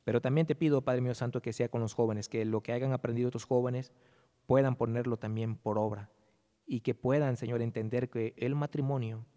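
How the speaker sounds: earnest pastoral prayer, steady and reverent. Acted. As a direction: pray over the congregation humbly. Pastor leads closing prayer.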